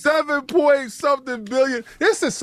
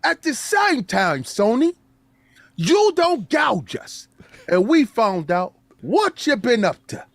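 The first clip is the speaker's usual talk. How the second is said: lightly hammed threat; mock gloating character. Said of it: "I don't like you in this accent".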